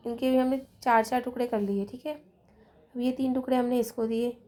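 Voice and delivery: usual speaking voice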